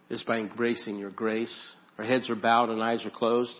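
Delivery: earnest spoken prayer. Acted. Pastor praying over the congregation, earnest and steady. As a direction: pray aloud for the room.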